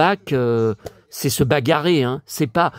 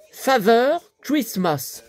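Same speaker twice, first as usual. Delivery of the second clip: drawn-out, careful English reading; slow read; 6 semitones higher, slower than usual. Shown as a demonstration. Reading the book's phrase aloud to viewers, slowly and deliberately. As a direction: spell out Father Christmas slowly, weighing each word. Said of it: "J'ai jamais vu ça".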